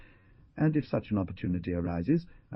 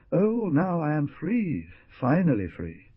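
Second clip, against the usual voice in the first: slow, stretched cry of joy, higher; moved joy; 8 semitones higher, 3 dB louder, slower than usual. Acted. Freed man holding the hunter's head, slow moved joy. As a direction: let the joy shiver through it. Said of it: "with an accent that sent a shiver".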